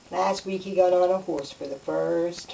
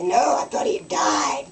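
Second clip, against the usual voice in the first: retort; 4 semitones higher than usual. Retold or imitated. Mother's punchline retort.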